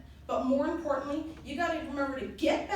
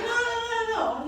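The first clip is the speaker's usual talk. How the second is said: higher, louder quick no no no; hurried reassurance; 9 semitones higher, 6 dB louder, much faster than usual. Retold or imitated. Fiance hastily reassuring her, higher and louder. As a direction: rush to calm her, half laughing.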